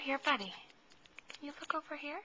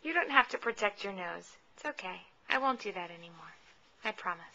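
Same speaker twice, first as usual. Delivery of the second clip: reassuring; 5 semitones lower than usual. Real, not acted. Soothing upset baby.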